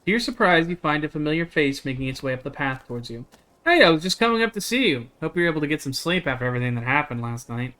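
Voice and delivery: even, measured read-aloud of the story text; game text narration. Acted. Streamer reading game text to chat, steady narration. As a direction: read the scene out steadily to viewers.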